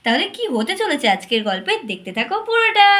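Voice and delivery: bright storyteller greeting the little ones; sing-song host voice opening a kids' story; cheerful kids' host. Acted. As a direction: welcome the children like a friendly show host.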